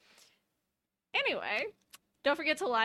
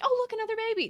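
mock surprise; 11 semitones higher, much faster than usual. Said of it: "They're like".

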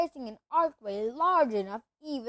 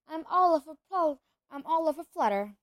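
excited; 4 semitones higher, 3 dB louder than usual. Acted. Excited fan meeting Harry.

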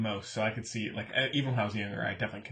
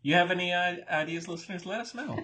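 laughing; 7 semitones higher, 4 dB louder than usual. Real, not acted. Playful call-out to listeners.

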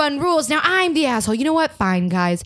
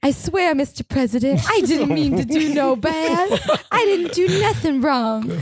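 hammed-up pleading. Mom pleading with Mister President, hammed-up. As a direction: plead like a wronged simpleton.

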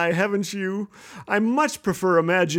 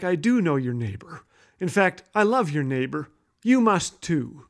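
a hint of a low, calm God; 3 semitones lower than usual. God replying about the neighbor, lightly voiced calm authority. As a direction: answer a little lower, slowing at the end. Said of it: "an almost audible voice comes back".

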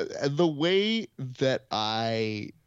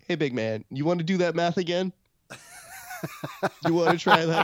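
mock challenging; 7 semitones higher than usual. Host retelling how he challenged Kevin, teasing. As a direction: tease him to redo the math.

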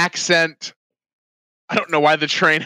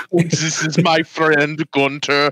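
slow, mock European accent; slower than usual. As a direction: introduce a friend in a put-on European accent. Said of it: "it's the European train".

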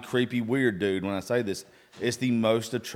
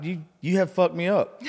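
laughing; 9 semitones higher, 4 dB louder than usual. Real, not acted. Laughing at the compliment.

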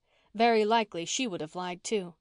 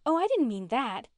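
higher, louder hasty protest; earnest raised-voice disclaimer; 5 semitones higher, 5 dB louder than usual. A narrator's reading. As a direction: rush to deny any offence, voice lifted. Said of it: "protested Faith".

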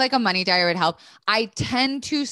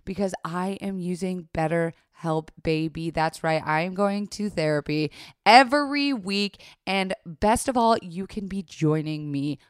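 ad read. Acted. Sponsor ad read.

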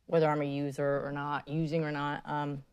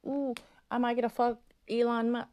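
higher, breathless daydreaming gush; imitating her own excited thoughts, pitched up; mock giddy fangirl; 7 semitones higher than usual. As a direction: gush like a starstruck fan, half-joking. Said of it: "'cause I'm like".

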